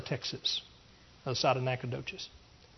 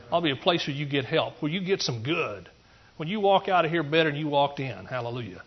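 normal talking voice

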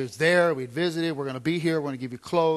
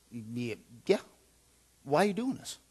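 reporter quizzing; 2 semitones lower, 4 dB quieter than usual. Retold or imitated. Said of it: "the reporters kept saying".

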